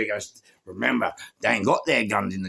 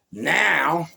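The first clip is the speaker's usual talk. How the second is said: ordinary talk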